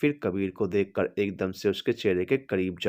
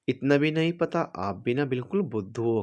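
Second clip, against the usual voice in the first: smiling tease; 4 semitones higher than usual. Acted. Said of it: "एकदम से मुस्कुराते हुए बोली".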